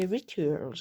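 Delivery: Rituals in a put-on English accent; Rituals, English-style pronunciation. Shown as a demonstration. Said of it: "pour celles et ceux qui n'auraient pas bien compris mon super accent".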